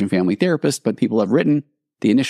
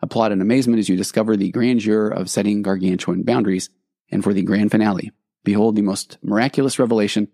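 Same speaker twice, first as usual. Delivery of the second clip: carnival barker. Pretend. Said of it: "Back to your regularly scheduled carnival barker".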